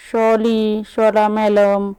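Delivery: slow lisping "शॉली, शॉला madam"; sulky lisped apology; baby-talk sorry. A narrator's reading. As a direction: lisp the apology like a toddler.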